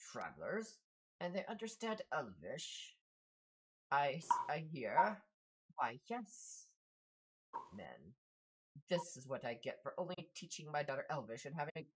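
lightly voiced exasperated father, pitch swinging widely; a hint of a put-out old parent; grumbling Elvish-speaking father. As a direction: grumble in disbelief at these visitors. Game master voices grumbling father.

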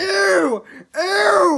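disgusted ew. Acted. Disgusted cry.

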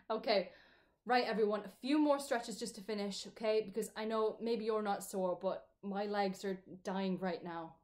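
fitness instructor. Real, not acted. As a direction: lead the group through stretches. Leads a stretching class.

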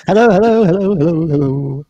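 high, loud sing-song hellos; loud excited greeting. Real, not acted. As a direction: burst in calling hello to everyone. Bursting in with a greeting.

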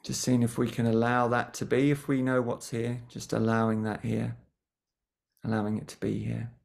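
gentle guiding voice with long pauses between phrases; guided meditation. Real, not acted. Teacher settling a group before a mindfulness session, guided meditation. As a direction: ease listeners into stillness, leaving lots of silence. Leads a short grounding meditation.

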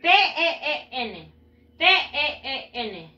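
letters one at a time, evenly spaced; separate, measured letter names; spelled out. Shown as a demonstration. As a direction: spell it slowly for learners to follow. Teacher spells the ending for learners.

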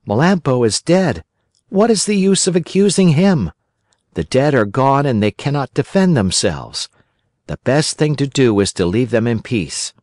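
a hint of a boyish puppet, thoughtful; lightly voiced Pinocchio musing. Pinocchio talking to himself about Melampo, lightly voiced and thoughtful.

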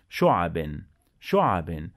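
Arabic teacher modelling the final n; nunation demo. Shown as a demonstration. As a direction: sound the tanween نون on شعب. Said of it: "لازم نضيف صوت حرف النون للكلمة".

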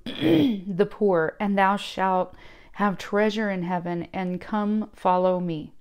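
slow, loud proclaiming of scripture; solemn King James reading. Acted. Reading Jesus' words from scripture.

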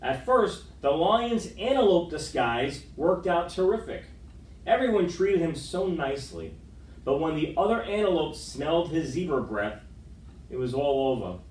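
lively picture-book read-aloud; story narration. A narrator's reading. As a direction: read to the kids with gentle drama.

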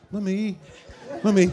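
put-on high, small child's call; little child. Child in the shop calling to parent, high little voice. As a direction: pipe up like a tiny child. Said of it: "you see a little child".

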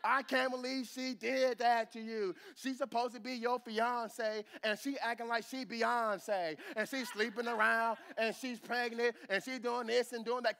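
a light sassy gossiping sister voice, slowed; lightly voiced gossip, slow and sassy; Shanae voice. Preacher mocks a sister gossiping to Joseph, lightly sassy. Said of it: "in my Shanae voice".

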